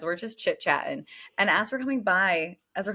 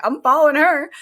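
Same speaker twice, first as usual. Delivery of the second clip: mock excited yell; 7 semitones higher, 8 dB louder than usual. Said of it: "they were like".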